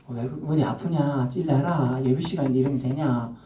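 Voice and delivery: God gently checking on a sleeping believer, understated; gentle God. Acted. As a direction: ask kindly, as if worried he's sick. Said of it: "요래 말해요".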